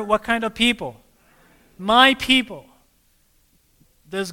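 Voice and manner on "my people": loud, higher call of "Come out of her"; proclaiming call. Acted. Preacher calling the congregation out of Babylon, loud. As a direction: ring it out like a voice from heaven. Preacher answers his own question.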